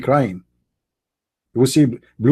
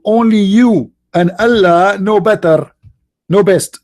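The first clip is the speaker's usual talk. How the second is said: put-on higher, slow, sweet girlfriend voice; adoring fiancée; 6 semitones higher, 4 dB louder, slower than usual. Mocking the fiancée's adoring answer to her man, high and slow. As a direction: melt into it like a devoted fiancée.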